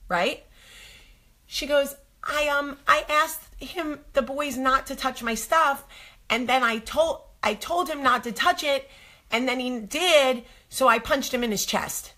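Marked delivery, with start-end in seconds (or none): 2.2-12.1 put-on higher, matter-of-fact child voice; innocent little girl. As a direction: explain it sweetly like it's obvious.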